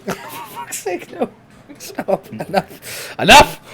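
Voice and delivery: loud laughing Enough; loud protest. Real, not acted. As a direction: cut them off loudly. Shouting to stop teasing.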